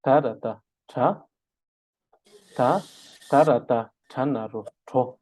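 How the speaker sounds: syllable-by-syllable spelling for the class to repeat. Shown as a demonstration. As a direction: spell "Ta, tarata, tra" in clear separate beats. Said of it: "đánh vần theo thầy".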